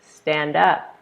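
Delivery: "Stand up" given as a command; order tone. Shown as a demonstration. Mother giving child an order, commanding "Stand up". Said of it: "it's an order".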